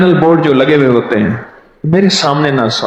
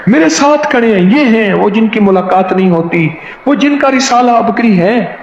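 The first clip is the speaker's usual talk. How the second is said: high, thrilled repetition; husband telling his wife on the phone, excited; excited phone call; 6 semitones higher than usual. Retold or imitated. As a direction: tell her the news breathlessly.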